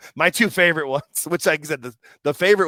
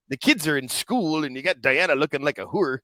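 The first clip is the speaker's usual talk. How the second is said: lightly voiced impression of an old wrestler; a hint of a borrowed voice, softly imitated; Stu Hart; 4 dB quieter than usual. Sharing a favourite clip with co-hosts, light impression. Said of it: "he does the Stu Hart impression".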